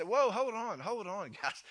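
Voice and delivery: alarmed, high, loud halt; urgent interjection. Retold or imitated. Brother stepping in to stop the killing, urgent and loud. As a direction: jump in loudly to call them off.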